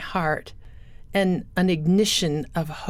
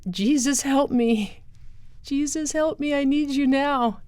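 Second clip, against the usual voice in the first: retold desperate plea; 7 semitones higher than usual. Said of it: "crying and screaming".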